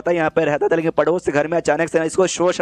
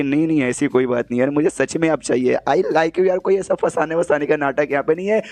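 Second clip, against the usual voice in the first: sweetly. Acted. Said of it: "और बड़े प्यार से बोलती है".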